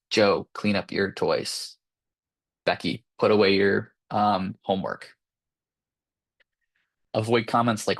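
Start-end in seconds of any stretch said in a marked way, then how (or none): 0.1-5.1 firm directive. Shown as a demonstration. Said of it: "So say something like".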